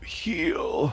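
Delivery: begging, imploring tone. Voicing a dying creature that releases one word: pleading voice. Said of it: "release a pleading voice".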